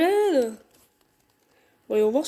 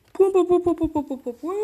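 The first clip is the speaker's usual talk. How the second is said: reading the dots in a silly voice; mild dad voice; mock dad ellipsis; 4 semitones higher than usual. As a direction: sound out the pause like a goofy dad. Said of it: "je vais faire des voix comme ça".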